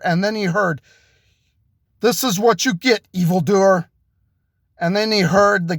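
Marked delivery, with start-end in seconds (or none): 2.0-3.9 avenging hero. Acted. Avenger overheard beating the gunman.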